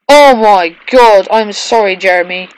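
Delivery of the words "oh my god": slow, loud oh my God; shocked exclaim. Real, not acted. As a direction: drag it out in horror. Character crashes.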